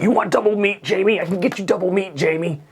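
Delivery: high, keen yes-man; fawning assistant. Retold or imitated. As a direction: suck up to Jamie in a high eager voice. Imagined assistant at Chipotle.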